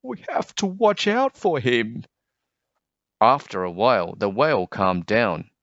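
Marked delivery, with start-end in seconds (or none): 0.0-2.0 mock whisper. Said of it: "whispered the fish with the jagged fins".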